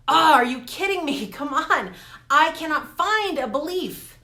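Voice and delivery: exasperated disbelief. Retold or imitated. To herself, failing to find the belief: loud exasperated disbelief. Frustrated while searching for a belief.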